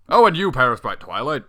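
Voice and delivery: loud mock gush; mock fond address. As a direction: gush over a possession in jest.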